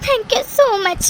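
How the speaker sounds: slow thanks through tears; tearful thanks. Acted. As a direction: thank him while crying. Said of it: "இப்ப எதுக்கு நீ இவ்ளோ emotional ஆகுற".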